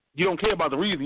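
ordinary talk, nothing marked

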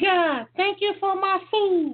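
tiny, very high-pitched kitten voice. Recalling the short prayer said at fifteen, in a small high kitty voice. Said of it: "I say like my kitty voice".

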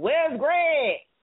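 play-acted, high, loud, yelled-out shout. Retelling a man yelling for someone during a show; retelling a yell. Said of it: "Gerald just yelling".

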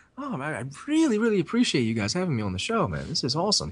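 overly nice, extremely gentle, polite voice. Retelling a deathmatch wrestler's phone call: imitating an extremely gentle guy. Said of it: "extremely gentle and shit".

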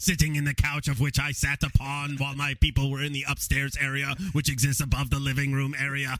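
cartoon alien villain voice. Asked what he was really doing, he answers in a Krang voice. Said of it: "Say it in Krang's voice".

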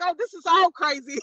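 talking through laughter. Speaker recounting screaming alone in the car, retelling laughing while talking. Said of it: "And I started laughing".

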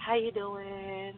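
soft, gentle, calming, soothing tone. Describing a woman she is being shown, the speaker imitates her calm voice. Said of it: "she has a very calming voice".

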